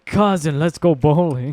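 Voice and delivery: cousin voice. Acted. Repeating cousin impression.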